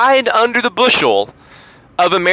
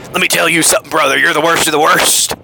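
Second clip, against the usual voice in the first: wrestling promo; faster than usual. Pretend. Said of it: "cut a wrestling promo".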